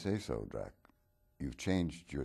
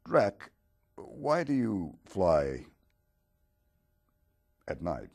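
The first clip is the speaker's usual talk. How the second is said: high, loud call, slowed right down; drawn-out shout across the studio; hailing Drac with a stretched, loud question; 7 semitones higher, 11 dB louder, slower than usual. Acted. Interviewer calls out to Dracula.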